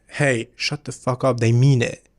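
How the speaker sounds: slow, emphatic mock scolding; telling off one's brain. Shown as a demonstration. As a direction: firmly put your doubting brain in its place. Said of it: "That tone of voice".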